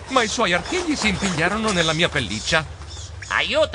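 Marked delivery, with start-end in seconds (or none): 3.3-3.8 rising, drawn-out yell; cry for help. A narrator's reading. Geronimo tangled with a bat, yelling for help. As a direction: call out for rescue.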